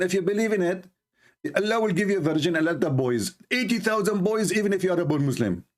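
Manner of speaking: mock preacher. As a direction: sell it like a pushy preacher, brother. Mocking preacher pitching Islam.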